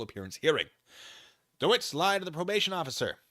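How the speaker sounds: reading a document aloud. Acted. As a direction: read the filing out to the viewers. Reading court filing aloud.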